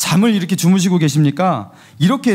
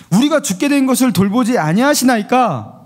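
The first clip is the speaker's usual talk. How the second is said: higher, pleading reproach in "우리가 죽게 된 것을"; emotional plea; 5 semitones higher than usual. Shown as a demonstration. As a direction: plead with hurt feelings. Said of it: "여기에 뭔가 감정이 실려 있죠?".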